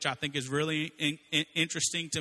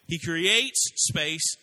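"He creates space" drawn out slowly, each word stressed; slow emphatic; 3 semitones higher, 5 dB louder, much slower than usual. Shown as a demonstration. Preacher walking the congregation through creation, slow and emphatic. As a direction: stretch "creates" and "space" for teaching weight. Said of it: "this amazing pattern".

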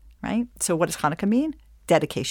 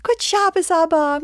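put-on much higher, a touch louder childlike greeting; sweet children; 11 semitones higher, 4 dB louder than usual. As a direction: chirp it like a happy little kid. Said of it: "My kids run into ... their father's arms".

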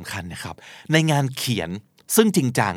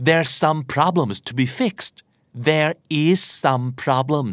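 slow, careful English example; slow model sentence; slow demo sentence; 2 semitones higher, much slower than usual. Shown as a demonstration. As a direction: read it slowly for learners. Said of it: "เราอาจจะได้ยินคำว่า".

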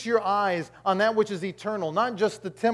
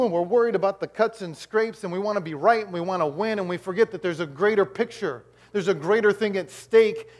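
raised, driving sermon delivery; impassioned preaching; 3 semitones higher, 5 dB louder than usual. Real, not acted. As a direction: press the congregation with urgent conviction. Preaches with rising force.

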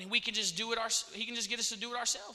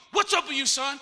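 raised, loud challenge to son; pastor on a call; 4 semitones higher, 7 dB louder than usual. Acted. Pastor phones the excited son.

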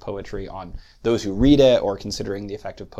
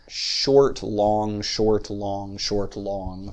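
"short, long" paced out as a slow repeating pattern; iambic rhythm; much slower than usual. Shown as a demonstration. Lecturer spelling out the pattern of iambic meter, iambic rhythm. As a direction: count out "short, long" in measured iambic pairs. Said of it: "that is, patterns of".

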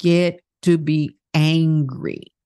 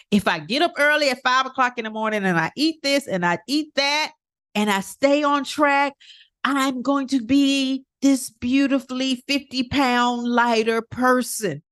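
higher-pitched, slowing toward the end; mock hopeful bargaining; 5 semitones higher than usual. Coach acts out bargaining over weight loss, in a higher mock-hopeful voice. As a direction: play a dieter making a deal, pitched up.

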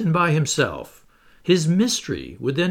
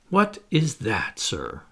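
slow, mildly ironic question; a touch of dry mockery, drawn out; captain needling the professor, lightly ironic; slower than usual. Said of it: "he replied ironically".

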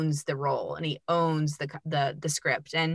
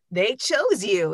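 agent's good news; 3 semitones higher, slower than usual. Retold or imitated. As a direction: break the news slowly, savoring it. Agent acted out announcing the booking.

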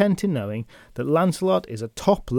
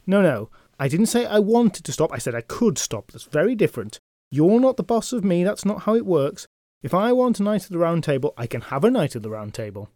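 defensive knight; 4 semitones higher than usual. Acted. Knight insists, defensive and childish.

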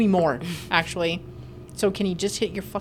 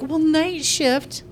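high, slow mocking whine; sing-song high mockery; mocking a patient; 7 semitones higher, slower than usual. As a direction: parrot them in a high mock whine. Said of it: "but they're like".

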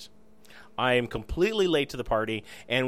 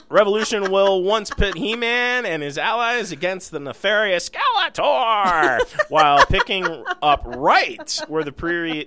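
louder, reading through held-back laughter; stifled giggles; 4 semitones higher, 7 dB louder than usual. Real, not acted. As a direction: fight off a laugh while reading. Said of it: "Trying not to laugh while I'm reading this".

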